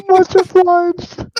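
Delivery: slow, laughing Southern echo, high and loud; Southern drawl. Acted. Player echoing the thanks, laughing in Southern drawl. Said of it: "he's a Southern man".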